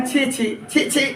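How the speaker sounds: soft, slow tut of disgust; quietly put-on distaste; mock disgust. Shown as a demonstration. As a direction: demonstrate a hushed, drawn-out revulsion. Demonstrates repeated exclamation of disgust.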